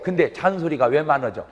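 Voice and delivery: usual speaking voice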